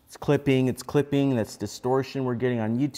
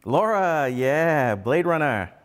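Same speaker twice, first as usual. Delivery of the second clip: louder, higher, delighted confirmation; excited shout-out; 4 semitones higher, 4 dB louder, much slower than usual. Real, not acted. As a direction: call it out to a viewer who guessed right. Viewer spots the film reference.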